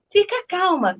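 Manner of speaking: mild mock yell, drawn out slowly; retold shout. Daughter quoting whoever yells at her to calm down, mild mock shout. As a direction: imitate someone yelling for calm, slowly.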